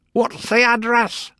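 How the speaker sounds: high-pitched query; questioning juror. A narrator's reading. Juror asking about the letter, high and curious. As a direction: pipe up in a high voice.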